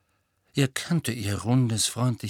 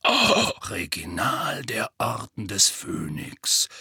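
growling Moody; slower than usual. Acted. Moody presenting the old photo, slow growl. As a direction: growl it out slowly. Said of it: "knurrte Moody".

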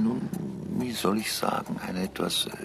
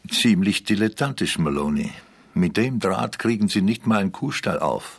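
loud mocking; 6 dB louder than usual. Agent mocks intruder's lockpicking.

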